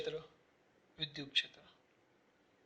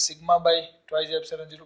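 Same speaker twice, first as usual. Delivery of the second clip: slow dictation; much slower than usual. Shown as a demonstration. Teacher dictating the formula to students, slowly. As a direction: spell out the formula word by word, slowly.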